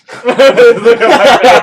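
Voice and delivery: big loud laugh; loud burst of laughter. Real, not acted. Laughs at own story.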